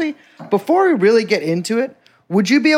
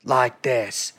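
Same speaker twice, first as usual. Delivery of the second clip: put-on goofy British accent; 3 semitones lower, 3 dB quieter than usual. Host narrating an Old Bailey skit as a bewigged judge, goofy British accent. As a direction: play a mock-solemn old British judge, taking your time. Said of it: "Have you done your goofy British accent yet?".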